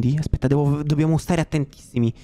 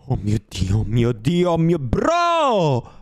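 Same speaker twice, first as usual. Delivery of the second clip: panicked outcry; 3 semitones lower, slower than usual. Real, not acted. Player sees something scary in the game, panicked outcry. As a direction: dread swelling into a drawn-out cry. Sudden scare in horror game.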